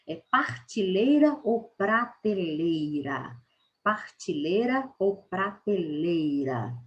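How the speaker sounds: partilheira then prateleira, slow; wrong vs right form. Shown as a demonstration. Teacher contrasting rural and standard forms, slow. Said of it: "falar essa palavra desse jeito".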